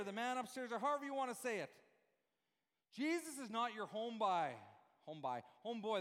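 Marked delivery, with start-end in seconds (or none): 3.9-4.5 put-on homeboy in a Newfie accent; Newfoundland accent. Preacher joking that Jesus isn't your homeboy, Newfoundland accent. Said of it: "that was the newfie". 5.1-5.4 put-on "by" for boy, Newfie style; Newfoundland accent. Shown as a demonstration. Preacher showing the congregation his Newfie homeboy, Newfoundland accent. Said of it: "that was the newfie".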